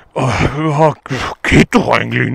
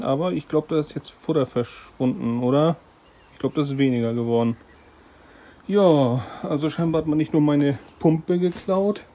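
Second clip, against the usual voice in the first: hushed, much softer talk; quiet; 7 dB quieter than usual. Real, not acted. Recording quietly on the phone.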